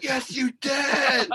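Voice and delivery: high, drawn-out mock shout; hammed-up squabbling yell; arguing back. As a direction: fire back a stretched-out accusation. Acted back-and-forth late-night argument.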